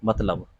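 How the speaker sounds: मतलब with the 't' sounded, 'mat-lab'; correct pronunciation. Shown as a demonstration. Teacher introduces the word on screen, correct pronunciation. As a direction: say मतलब with a distinct त before ल. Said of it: "इसका जो सही उच्चारण है".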